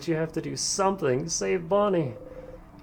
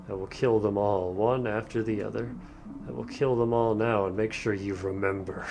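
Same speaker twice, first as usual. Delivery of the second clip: cruel villain king; 3 semitones lower than usual. Acted. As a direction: promise every death coldly. King villain threatens party.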